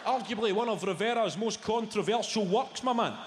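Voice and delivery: gear him at both barrels with smug glee; smug know-it-all lecture. Acted. To the stranger in the gallery, smug fast show-off lecture. Showing off art knowledge.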